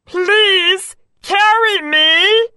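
high, slow pleading frog voice. Acted. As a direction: beg slowly as a tiny frog. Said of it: "he said".

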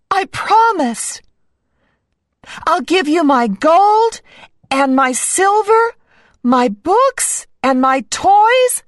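high, eager princess promise; a cartoon princess promising everything. A narrator's reading.

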